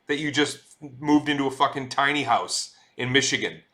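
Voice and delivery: playfully fed-up complaint; mock exasperation. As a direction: rant back at an oversharing mailing list. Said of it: "it's like".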